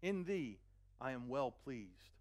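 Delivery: slow, solemn voice from heaven; a hint of a booming divine voice; voice of God. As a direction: proclaim it slowly as the Father. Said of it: "a voice came from heaven which said".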